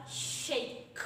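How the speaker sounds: "shake" with a hard, separately released final k; emphasised K sound. Shown as a demonstration. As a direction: let the k ending "shake" burst out on its own. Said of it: "We have the K sound".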